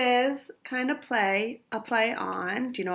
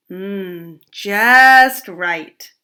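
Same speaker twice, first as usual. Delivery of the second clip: delighted; 10 dB louder, much slower than usual. Acted. Goldie tastes perfect congee.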